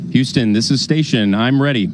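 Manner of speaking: loud voice over space radio; calling back over the link; radio communicator. Real, not acted. Astronaut answers over radio.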